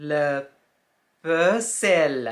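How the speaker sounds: le puzzle as "puh-zel"; le puzzle, stretched out slowly; French pronunciation. Shown as a demonstration. Teacher modelling the French word, careful French. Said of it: "เราอ่านว่า".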